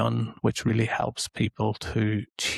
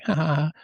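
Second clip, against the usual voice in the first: higher-pitched mock laugh; imitated laugh; 6 semitones higher than usual. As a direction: act out a brief ha-ha-ha laugh. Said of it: "makes you laugh and think".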